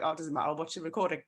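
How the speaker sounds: quick, breezy brush-off; dismissive excuse. Retold or imitated. Mocking team members who skip the call, breezy. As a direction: rattle it off like a lazy excuse. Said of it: "we're like".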